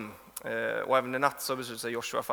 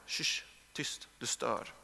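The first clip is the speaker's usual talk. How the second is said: a sharp, soft shush of someone being silenced; hushing whisper; 4 semitones lower, 8 dB quieter, much slower than usual. Acted. Crowd hushing the blind man, soft scolding shush. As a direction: hiss them quiet, much softer.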